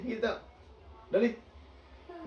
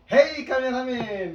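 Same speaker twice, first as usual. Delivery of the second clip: calling out; 5 semitones higher, 7 dB louder than usual. Real, not acted. Memanggil kameramen.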